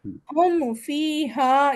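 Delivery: ہم فیہا slow, meem of ہم clear and short; no nasal hold on ہم; meem said without ghunna. Shown as a demonstration. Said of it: "یہاں پہ ہم کوئی وزن نہیں دیں گے".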